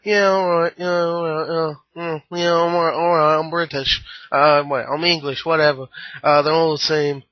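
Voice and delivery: lightly voiced bored British rock star; mock British rocker. Vlogger mocking the snobby rock star character, light British accent. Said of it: "He was like".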